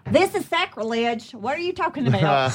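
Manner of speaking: mock-scolding mom with a rough New York accent; badly faked New York accent. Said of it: "That's my New York accent".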